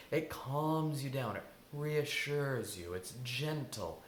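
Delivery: slow, soothing explanation; gentle, calming. Shown as a demonstration. Coach describing the nurturing voice in that voice, soothing. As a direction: draw the words out reassuringly. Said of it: "Listen to my voice right now".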